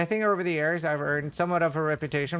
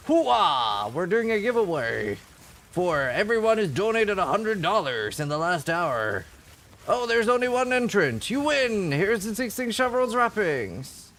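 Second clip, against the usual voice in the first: hyped streamer hollering Hoo-ah; gung-ho army shout, then pitch climbing; 3 semitones higher than usual. Retold or imitated. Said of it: "he would go like".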